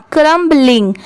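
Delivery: क्रम्बलिंग made of "क्रम्ब" plus "लिंग"; teacher's demonstration of क्रम्बलिंग, B sound before "लिंग"; two parts joined. Shown as a demonstration. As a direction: model क्रम्बलिंग as one whole word. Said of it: "पूरा क्या हो जाएगा?".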